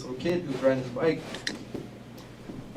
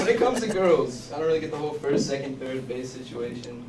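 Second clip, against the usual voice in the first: Boston accent. Real, not acted. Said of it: "sound like you have a Boston accent".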